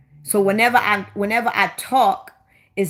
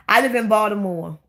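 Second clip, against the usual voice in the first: local Baltimore accent, dropping the L. Shown as a demonstration. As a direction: say Baltimore the local way, like "Baw-duh-more". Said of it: "we got the worst accent".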